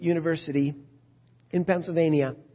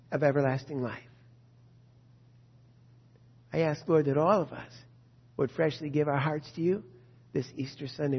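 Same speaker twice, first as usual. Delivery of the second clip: closing prayer. Real, not acted. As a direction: pray aloud in measured phrases with long pauses.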